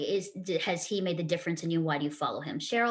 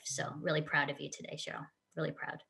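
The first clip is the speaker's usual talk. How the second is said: softer, choked with feeling, fading away; tearful pride; 7 dB quieter than usual. Real, not acted. Host to her friend Cheryl, softly tearful. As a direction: say it through tears of pride. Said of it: "I'm tearing".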